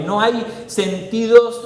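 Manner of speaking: ordinary talk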